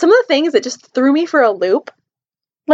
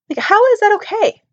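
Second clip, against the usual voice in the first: indignant; 9 semitones higher than usual. Real, not acted. Indignant at changed name.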